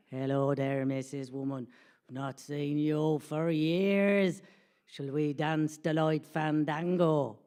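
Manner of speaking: very slow, drawn-out man's voice; low start, ponderous mock courting; chap's invitation. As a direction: draw out every vowel like a slow charmer.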